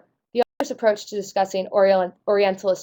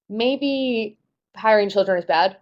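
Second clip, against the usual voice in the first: slow, hedging "maybe hiring children is bad"; slow tentative guess; slower than usual. Shown as a demonstration. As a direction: drag out "maybe" as if unsure. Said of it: "we're led to think, okay".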